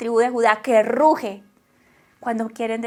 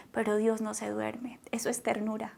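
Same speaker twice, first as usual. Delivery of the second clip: hushed, breathy whisper; preacher whispering a tender truth; 2 semitones lower, 11 dB quieter than usual. Real, not acted. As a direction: let it fall to a secret whisper. Whispered point in sermon.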